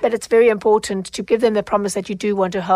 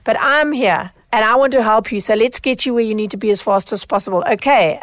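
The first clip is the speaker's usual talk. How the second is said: reassuring demo. Shown as a demonstration. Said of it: "I said, "Say".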